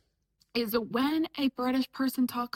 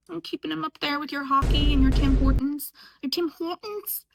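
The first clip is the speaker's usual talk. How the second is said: badly faked Canadian accent; 3 semitones higher, 4 dB louder than usual. Mocking northern neighbours about Tim Hortons, bad Canadian accent. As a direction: attempt a Canadian accent, questioning at the end. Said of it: "That's a horrible accent".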